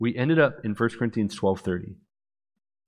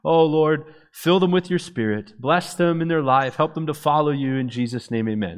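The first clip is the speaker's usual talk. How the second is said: higher, louder opening that settles toward the amen; praying over youth; 4 semitones higher, 3 dB louder than usual. Retold or imitated. Young minister praying over the youth, earnest prayer. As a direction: pray earnestly, easing down into amen. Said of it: "praying for them like this".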